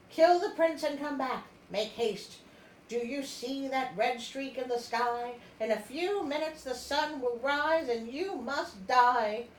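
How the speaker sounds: urgent sisters. Retold or imitated. Sisters urging her to kill.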